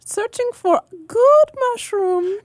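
high, slow, odd foreign-sounding voice; mushroom elf voice. Acted. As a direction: play the dim mushroom hunter. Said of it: "I love the voice that, that you put together".

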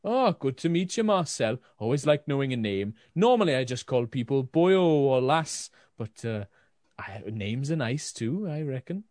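friendly, lilting attempt at Welsh; Hulda. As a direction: greet a new acquaintance in a botched Welsh accent. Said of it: "it was my attempt at Welsh".

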